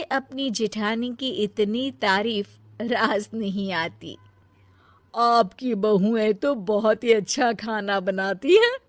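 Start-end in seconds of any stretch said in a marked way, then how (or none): 5.1-8.8 lightly voiced aunt. Aunt voice continues.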